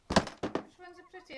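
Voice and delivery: high, slow and loud; drawn-out singsong question; playful sing-song. Pretend. Mother playing dolls with child.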